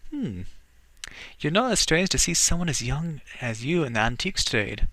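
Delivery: a hint of a Scottish burr, teasing; Scottish accent. Young woman sizes up the stranger, light Scottish accent. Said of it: "I'm giving her a Scottish accent".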